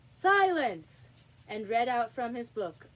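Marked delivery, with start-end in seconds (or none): 0.1-1.1 loud, high shout for silence; called out. A narrator's reading. King calling the court to order, shouting. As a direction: bellow it across the court. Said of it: "called out".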